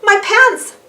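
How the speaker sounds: high, loud startled gasp. Acted. Arthur jolts awake from his nightmare, high loud gasp. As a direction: wake up in a fright and blurt it. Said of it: "Arthur gasped".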